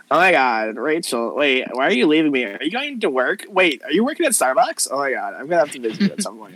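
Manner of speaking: put-on gushing Valley girl, swooping intonation. Valley girl chatting to her friend Rachel about Starbucks, gushing. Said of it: "you're gonna talk to the Valley girls".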